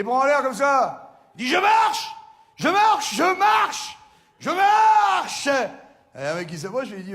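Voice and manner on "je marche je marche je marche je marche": high yelling joy; overjoyed cry, much higher and louder; ecstatic shout. Acted. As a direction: shout it to the street, arms up. Man shouting he can walk.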